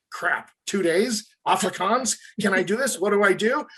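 dismayed, questioning self-talk; mock panic. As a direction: act out an actor's mild panic after a phone call. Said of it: "a moment of panic or anxiety".

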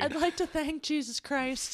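mock tearful award thanks; teary acceptance speech. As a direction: gush thanks like a winner. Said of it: "accepting the award".

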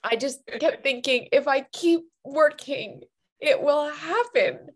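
real tearful crying while speaking; ugly crying. Real, not acted. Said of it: "I'm ugly crying".

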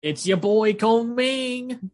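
high, drawn-out hype announcement; hype-man intro. Pretend. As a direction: stretch out the name like a hype man. Hyped mock introduction of next show.

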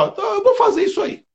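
high, quick, excited cry of resolve; determined shout. Retold or imitated. Recalling her decision to take the exam, a determined shout. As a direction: blurt it out like a sudden decision.

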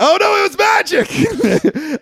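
drawn-out, over-the-top mock alarm; mock dramatic exclamation. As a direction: play it like a spooky reveal. Joking the notes closed by magic.

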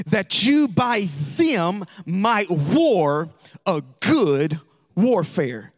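drawn out, slow toward the end; slow repeat. Shown as a demonstration. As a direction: read it slowly for them to hear. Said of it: "Let me say it again".

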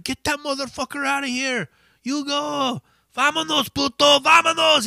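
high, rising mild mock scream. Singer screaming the heckler out of the venue, mild mock scream. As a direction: throw him out, hammed up. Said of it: "He's just fucking screaming at him".

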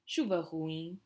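"ruim" ends nasal like "ruing"; nasal ending. Shown as a demonstration. Teacher models nasal "ruim" after explaining the M. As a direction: let "ruim" fade into a nasal ng. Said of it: "the same with ruim here".

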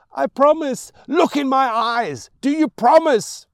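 high, loud frantic mother; mad scream. Acted. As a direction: scream it with madness.

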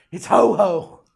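lightly voiced excited toddler; little boy excited. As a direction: play the toddler pointing out Santa to his dad.

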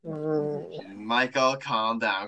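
low, steady talking-down; calming. Real, not acted. Co-host talking the ranting host down, low and calming.

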